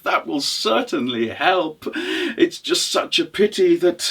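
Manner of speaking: lightly acted, chuckling, hedging voice; crafty traveller. Well-fed traveller to the widow, lightly sly.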